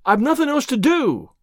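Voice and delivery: whiny, high-pitched protest; protesting child. A narrator's reading. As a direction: complain that there's nothing to do. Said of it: "protested Davy".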